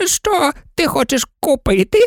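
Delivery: put-on high, prim old sheep; sheep shopkeeper. A narrator's reading. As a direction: ask like a knitting sheep behind a counter.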